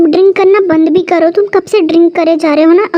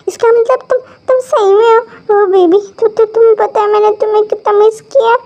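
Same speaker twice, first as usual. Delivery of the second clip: higher, stammering joyful realisation; raised pitch, happily surprised; delighted disbelief; 4 semitones higher than usual. Acted. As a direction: gush with relief, stumbling over the first words. Drunk man realises she is real.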